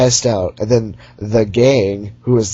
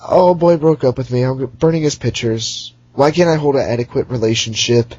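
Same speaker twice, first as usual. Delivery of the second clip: mock pop singer whine; 3 semitones higher than usual. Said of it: "a pop singer, in a nutshell, her songs".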